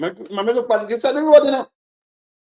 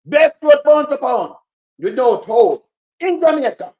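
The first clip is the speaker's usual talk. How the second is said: mocking quote; 3 semitones higher, 3 dB louder than usual. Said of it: "them said to me, say".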